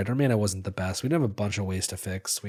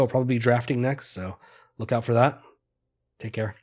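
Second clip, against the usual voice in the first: outro sign-off; 2 semitones higher, 3 dB louder than usual. Acted. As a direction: pitch the channel cheerfully. Upbeat outro sign-off read.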